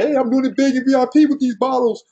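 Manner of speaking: high-pitched imitation of a show-off; mock bragging. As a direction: hype it up like you're flexing. Mimicking online flexer showing off bottles.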